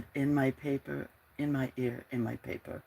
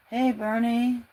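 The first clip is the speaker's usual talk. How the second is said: raised greeting call; 8 semitones higher, 4 dB louder than usual. Real, not acted. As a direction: call out to a friend. Calling out to Bernie.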